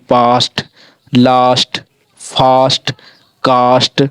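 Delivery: पास्ट, लास्ट, फास्ट, कास्ट with a long आ; teacher listing example words; model pronunciation. Shown as a demonstration. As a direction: read each word crisply. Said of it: "इस प्रकार से हमारा उच्चारण हो रहा है".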